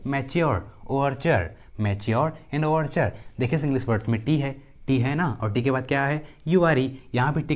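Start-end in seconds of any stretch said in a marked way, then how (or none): 0.1-3.1 "मैच्योर" and "ओवरच्योर" with a clear ch; ch sound for T. Shown as a demonstration. Teacher showing T as ch in "मैच्योर" and "ओवरच्योर". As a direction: say "मैच्योर" as match-yor, "ओवरच्योर" as over-chur. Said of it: "टी का उच्चारण च होता है".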